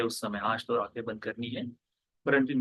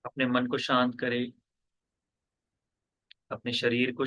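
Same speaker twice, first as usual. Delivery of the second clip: measured meditation guidance with long pauses; guided meditation. Real, not acted. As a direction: guide listeners into stillness, pausing after each instruction. (ध्यान कराते हुए, ठहर-ठहर कर निर्देश)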